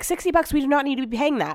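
mock him balking at the cost; outraged disbelief. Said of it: "he's like".

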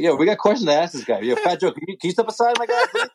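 imitating a reporter.

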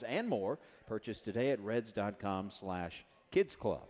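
upbeat radio ad read. Acted. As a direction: sell it like a live commercial. Live sponsor and ad read.

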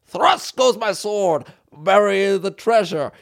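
high, slow pirate chant. Acted. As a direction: chant it like an old sea dog. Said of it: "talking like a fucking pirate".

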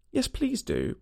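put-on high, girlish plea; pleading. A narrator's reading. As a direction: plead eagerly in a high little voice. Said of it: "pleaded Alice".

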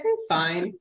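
"Hmm, fine" with a dull, forced lift; flat "fine". Retold or imitated. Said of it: "the queen of fine".

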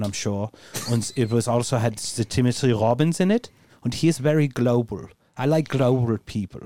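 calm, careful, formal review voice; measured German persona. Acted. As Deutschmark reviewing Shawshank, a hint of measured German. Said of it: "In a measured tone".

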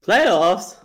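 shouted, high incredulous "Playoffs?"; mock incredulous Playoffs. Co-host doing the famous coach rant, mock disbelief. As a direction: burst out in disbelief at the word. Jim Mora "playoffs" meme quote.

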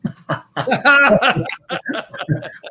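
high, loud burst of laughter; hearty laugh. Real, not acted. Guest laughing at being put first, loud laugh. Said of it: "That's like jumping out of a".

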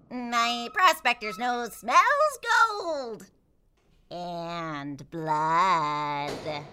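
lightly voiced grizzled prospector; slow, hint of an old prospector; gruff mountain man. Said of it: "he swoops down and says".

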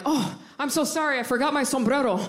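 overly apologetic, laughing through it; hammed-up sorry, sorry; mock apologetic. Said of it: "I get so apologetic".

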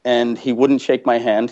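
ordinary talk, nothing marked

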